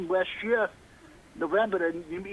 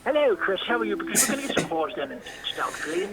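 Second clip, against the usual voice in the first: a loose, hammed-up English accent greeting Chris. Asked by the host to do his English accent. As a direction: put on a shaky English accent, half-joking. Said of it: "do your English accent".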